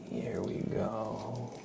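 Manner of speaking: slow whisper of "Here we go"; ASMR whisper. Acted. Starting the name trace for chat, slow whisper. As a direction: breathe "Here we go" slowly with no voice.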